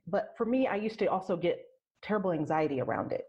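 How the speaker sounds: normal talking voice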